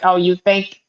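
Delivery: mildly indignant imitation of mom; mock-scornful challenge, lightly voiced; a hint of an angry Brooklyn lady. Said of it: "an angry lady from Brooklyn".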